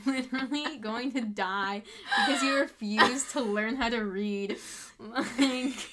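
hammed-up retold telling-off; exasperated scolding. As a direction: scold like a fed-up classmate, half laughing. Acting out boys scolding the slacker.

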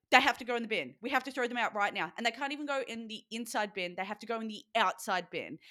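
high, loud insistent ranting; going psycho. Retold or imitated. Dieter ordering partner to bin the almonds, going psycho. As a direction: re-enact frantic orders, starting high and easing slightly. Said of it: "you were going so psycho".

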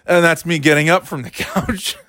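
slightly winded talking; out of breath. Real, not acted. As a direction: speak a little out of breath. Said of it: "I'm a little out of breath from getting up off the couch".

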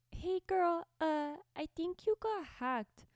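high, chirpy mock friend voice, laughing at the end; mock helpful friend. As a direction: ham up the well-meaning friend. Friends' helpful texts mocked.

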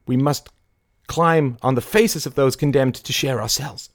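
high, emphatic woman's voice; rally yourself with a firm creed; high-pitched, driven declaration; Mary, resolute. A narrator's reading.

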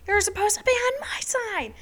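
high, whiny protest, imitated; retelling a high, whiny complaint. Retold protest to mom.

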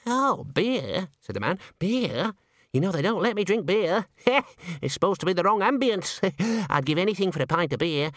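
high squeaky man, longing, with nervous laughs; squeaky, wistful little man. Acted. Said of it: "in a squeaky voice".

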